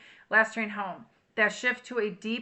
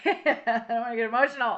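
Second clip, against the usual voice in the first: laughing; 2 semitones higher, 4 dB louder than usual. Real, not acted. Laughs, holding back tears.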